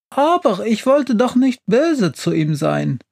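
high-pitched, tearful protest; trembling lip, near tears. A narrator's reading. Witch regretting her treatment of the stove, near tears. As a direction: plead as if about to cry. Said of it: "mit zitternder Unterlippe".

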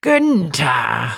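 cat calling out. Acted. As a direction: call him like an eager cat. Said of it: "rief Schrödinger".

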